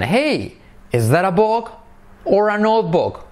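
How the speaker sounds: high "Hey", rising "book", falling "notebook"; high lifted choice question; intonation demo. Shown as a demonstration. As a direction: start high on hey and fall at the end. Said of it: "Entonación".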